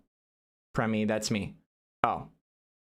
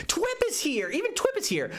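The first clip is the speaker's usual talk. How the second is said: excited squeal. Real, not acted. Viewer arrives, streamer squeals.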